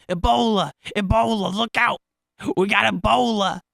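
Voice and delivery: high, loud panicked yelling; retold yell. Eighth grader running down the hallway, yelling a warning, panicked shout. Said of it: "he's yelling".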